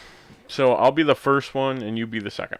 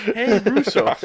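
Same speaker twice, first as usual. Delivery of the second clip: playful call-out; 11 semitones higher, much slower than usual. Pretend. Podcaster jokingly hailing film directors for an interview, playful call-out. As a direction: call out to them, raised pitch and volume.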